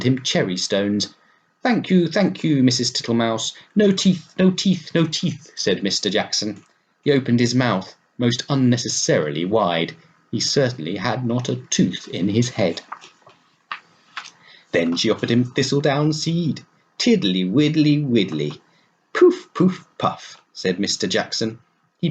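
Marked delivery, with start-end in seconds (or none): 1.6-5.5 high, jolly toad voice, pitch leaping up; cheerful old toad refusing cherry stones; Mister Jackson's fat voice. Acted. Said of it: "in a fat voice". 17.0-20.4 high, loud puffing blow; puffing toad. Acted. Toad blowing thistledown.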